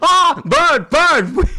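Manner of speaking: high, loud cry; real high-pitched exclamation; startled outburst. Real, not acted. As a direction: shout it in a sudden high burst. Sudden outburst at a bird.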